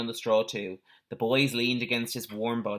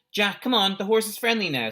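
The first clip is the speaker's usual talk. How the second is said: raised, higher voice calling across the cellar; 9 semitones higher, 4 dB louder than usual. A narrator's reading. Boy calls friend down to the friendly horse, calling out. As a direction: call him over, bright and loud. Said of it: "called Peter".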